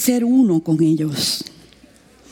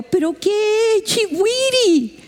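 insistent question; 10 semitones higher, slower than usual. Retold or imitated. Her pressing question retold.

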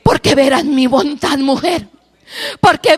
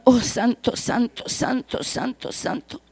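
from soft voice down to a whisper; fading worship; 6 dB quieter, slower than usual. Real, not acted. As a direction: let each word fade softer.

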